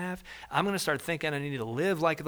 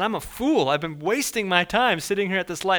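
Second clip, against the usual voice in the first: self-frustrated; 5 semitones higher, 5 dB louder than usual. Retold or imitated. Driver regrets waiting.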